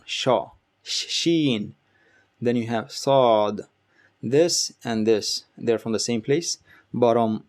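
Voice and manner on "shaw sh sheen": sheen with a long sh; sh sound. Shown as a demonstration. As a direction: hush into sheen. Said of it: "it's that sound".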